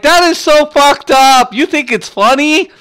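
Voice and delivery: high-pitched, acted-out outrage; retold indignant anger. Husband retelling his protest at laughing wife, indignant. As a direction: protest loudly in mock fury, stretching the first words. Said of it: "I was so mad that night".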